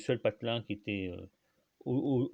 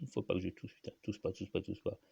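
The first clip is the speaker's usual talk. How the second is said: muttering to himself; 7 dB quieter than usual. Real, not acted. Fighting a cough, talking to himself.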